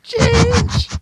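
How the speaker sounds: loud, high acted cry; sudden shout. Acting out the comic, one high shout.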